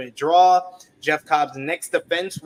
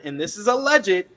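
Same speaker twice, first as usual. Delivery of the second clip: "alleged" repeated with emphasis, pitched higher; stress on ALLEGED; 4 semitones higher than usual. Retold or imitated. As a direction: lift and underline the word "alleged". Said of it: "he repeats alleged".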